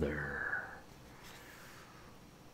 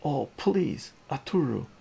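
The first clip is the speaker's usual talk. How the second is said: mother yelling; 9 semitones higher, 8 dB louder than usual. Acted. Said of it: "the mother yells".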